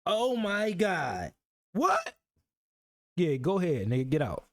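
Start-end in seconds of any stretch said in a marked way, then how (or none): 0.0-1.3 very slow, drawn-out oh my God; mock gush. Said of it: "you thought in your head". 1.7-2.1 very high disbelieving what; shocked what. Real, not acted. Disbelief at the text.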